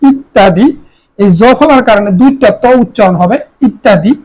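ইত্যাদি said as ittadi, with a doubled t; pronunciation demo. Shown as a demonstration. Teacher models ইত্যাদি with its doubled t. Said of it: "খেয়াল করো".

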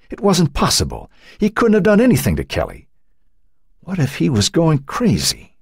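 high-pitched, troubled inner voice; anguished disbelief. A narrator's reading. Matt fears what he did to Kelly, high and distressed. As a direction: voice his rising dread, pitched well up. Character's panicked thoughts voiced by narrator.

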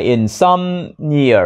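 "insomnia" said slowly, stressed on SOM; second-syllable stress. Shown as a demonstration. Teacher showing learners where stress falls, second-syllable stress. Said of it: "nhấn vào âm tiết thứ hai".

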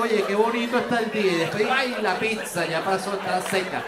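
ordinary talk

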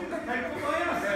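"by" punched high and loud, then "us" landed; emphatic rebuttal. Real, not acted. Rally speaker firing back at the sign with a loud stress on "by". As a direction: hit "by" hard and high to drive the point.

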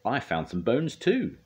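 cheeky, high and slow; drawn-out teasing brag; Spud. A narrator's reading. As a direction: boast with a cheeky grin. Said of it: "with a cheeky grin".

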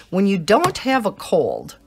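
high, loud, giggly mock-puzzled question; goofy wondering. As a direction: ask it like a big silly mystery, ending in laughter. Acting out goofy wonder question, laughing.

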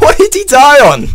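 shrill cartoon squeak, laughing; squeaky high mock voice. Gamer mocking a dead worm in a tiny squeaky voice.

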